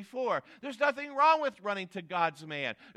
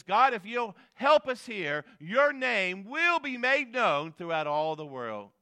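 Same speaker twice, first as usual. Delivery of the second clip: raised, emphatic appeal to God; crying out; 3 semitones higher, 5 dB louder than usual. Acted. Preacher voicing Hezekiah's plea for help, crying out. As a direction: cry it out as a preacher would. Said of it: "So Hezekiah cries out and says".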